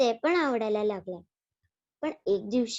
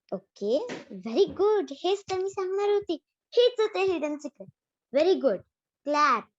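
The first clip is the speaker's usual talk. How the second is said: delighted teacher; 4 semitones higher than usual. Acted. Teacher praises Rohan.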